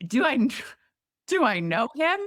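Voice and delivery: high, rushing oh my God; mock shocked, then nosy; gushing sympathy. Sympathetic then curious quote.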